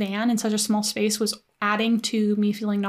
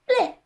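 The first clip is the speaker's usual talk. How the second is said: short retching bleh; imitated little retch; 14 semitones higher than usual. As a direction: mimic a tiny vomit sound. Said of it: "not talking about a cute little".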